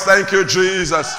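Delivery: slow, loud call of thanks; preacher calling the congregation to shout. Shown as a demonstration. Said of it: "shout with a loud voice".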